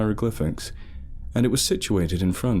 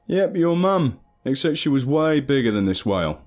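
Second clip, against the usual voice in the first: put-on higher, rowdy drunken teasing; drunk joker; 4 semitones higher than usual. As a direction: cackle through the insult. Kyle's drunk your-mum jokes.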